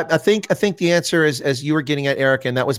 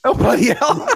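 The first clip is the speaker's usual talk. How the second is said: imitating the caller; 7 semitones higher than usual. Host echoes the caller's exclamation.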